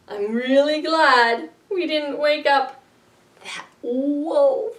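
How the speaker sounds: ordinary talk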